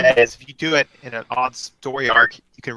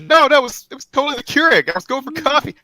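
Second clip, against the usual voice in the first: put-on high, flustered lying boyfriend; nervous excuse; 13 semitones higher than usual. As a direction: pitch up and scramble for an excuse.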